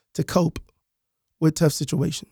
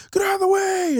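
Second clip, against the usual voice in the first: angry driver yelling; 13 semitones higher than usual. Retold or imitated. Drivers honking, yelling from cars.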